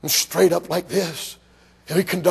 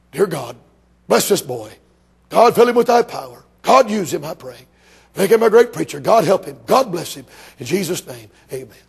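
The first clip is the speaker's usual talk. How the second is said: put-on fervent prayer over the boy; 5 dB louder than usual. Old preacher prays over boy.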